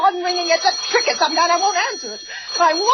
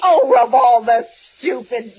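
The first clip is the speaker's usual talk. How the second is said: exasperated scorn; 5 semitones lower, 4 dB louder, slower than usual. Acted. Exasperated at operator.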